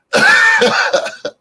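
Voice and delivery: high shrieking burst of laughter; a sudden high squeal of a laugh. Real, not acted. Laughing at her own Uranus mix-up, high squeal.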